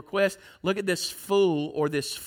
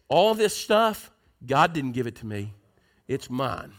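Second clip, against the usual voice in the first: rude, selfish; 6 semitones lower than usual. Acted. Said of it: "because he was so rude and because he was so evil".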